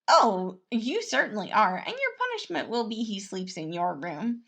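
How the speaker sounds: loud teasing prince voice; Remus, teasing. Acted. Prince teasing Logan about punishment. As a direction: needle Logan playfully.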